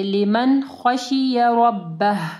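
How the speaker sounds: लिमन with a clean short n, no hum; slow लिमन खशिय रब्बह, audible final h; clear noon izhar. Shown as a demonstration. Teacher shows the rule to students, clear noon. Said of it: "हम लोग गुन्ना नहीं करेंगे".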